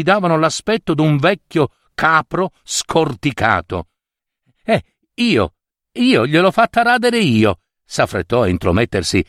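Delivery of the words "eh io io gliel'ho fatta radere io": high-pitched, eager interruption; flustered butting-in. Acted. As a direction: burst in high, claiming the credit. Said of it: "sopravvenendo tutta scalmanata". (intromissione scalmanata, con voce acuta)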